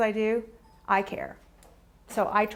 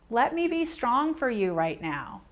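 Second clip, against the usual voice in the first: gentle reassurance; 2 semitones higher than usual. Shown as a demonstration. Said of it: "The right things to say".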